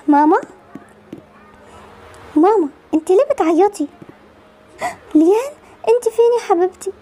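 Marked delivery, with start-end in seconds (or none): 5.1-6.9 higher, crying through the words; tearful mother. Acted. Mother cries to Lian about her sick sister. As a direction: call out through tears.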